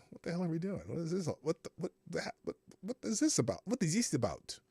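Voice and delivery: hesitant attempt at a Russian accent; lightly put-on Russian accent; bad Russian accent. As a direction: imitate baffled Russians in a rough Russian accent. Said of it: "I don't do a good Russian accent".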